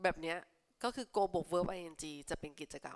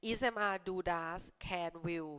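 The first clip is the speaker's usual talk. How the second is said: slow, deliberate list of words; slow classroom listing; 3 dB quieter, much slower than usual. Shown as a demonstration. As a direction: tick off each verb slowly. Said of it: "lists helping verbs slowly".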